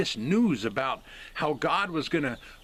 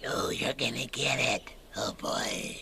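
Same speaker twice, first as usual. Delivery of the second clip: breathy, whispered demonic voice; 4 semitones lower, 5 dB quieter than usual. Speaker explaining beliefs about the mark of the beast, in a demonic voice. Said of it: "That was my demonic voice".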